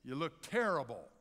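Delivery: loud, high call on "Hey, lady"; high parrot yell, then a drop for the insult. Acted. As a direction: heckle a passerby like a parrot. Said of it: "the parrot yelled out".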